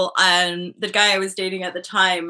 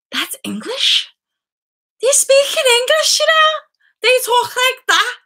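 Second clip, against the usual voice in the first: higher and louder, reliving her disbelief; astonished; 7 dB louder than usual. Retold or imitated. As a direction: exclaim it as if you can't believe your ears. Retelling her shocked reply to Peter.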